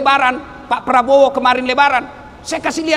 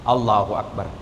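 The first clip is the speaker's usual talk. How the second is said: mock prayer call; 5 dB quieter than usual. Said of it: "cari duit".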